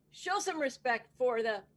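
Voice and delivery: slow, loud courtroom announcement; announcer call. Acted. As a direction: boom out the judge's entrance like an announcer. Bailiff announces the judge.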